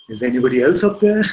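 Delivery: loud, quick punchline call; acted calling out. Man seeks another rescuer above, acted loud call. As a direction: call upward past God, comically. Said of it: "man says".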